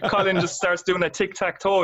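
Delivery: high, amused telling with laughter left over; laughing through it. Real, not acted. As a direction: let the giggle carry the words. Still laughing telling the story.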